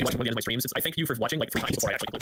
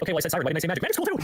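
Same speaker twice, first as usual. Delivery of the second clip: fretful self-quote; 5 semitones higher than usual. Retold or imitated. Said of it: "it's bothering me even now 'cause it's like".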